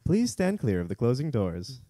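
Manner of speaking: flat, recorded subway PA voice; train station announcement. Pretend. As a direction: read it like the automated door warning. Mimicking subway door announcement.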